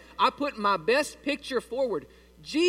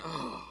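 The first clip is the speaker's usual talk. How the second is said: low, soft mock groan of dismay; imitated groan; 6 semitones lower, 8 dB quieter than usual. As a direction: groan quietly as the congregation would. Congregation reacting to sewer smell.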